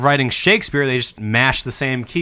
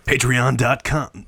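movie trailer voice; slower than usual. Pretend. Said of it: "the movie trailer voice".

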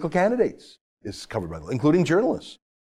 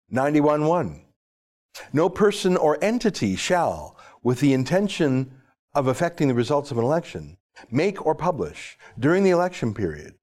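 deliberate, slow legal reading with pauses. Shown as a demonstration. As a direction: read the statute out slowly, phrase by phrase. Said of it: "slowly, and then I'm gonna".

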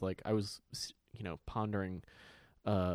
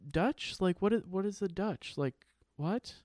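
put-on higher, puzzled kid voice; mock confused child; 7 semitones higher than usual. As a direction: play a baffled little girl. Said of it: "she was like".

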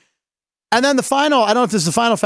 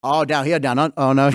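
halting, lower attempt at Australian; Australian accent; 4 semitones lower than usual. Shown as a demonstration. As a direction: try out an Australian accent, unsure.

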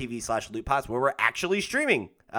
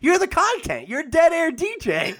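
playful teasing; 5 dB louder than usual. Acted. Playful teasing improv voices.

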